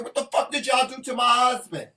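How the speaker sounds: loud, high-pitched indignant shout; retold yelling. Wife retelling yelling at hospital about her husband, furious. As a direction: reenact yelling an accusation, outraged. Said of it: "I'm yelling, I said".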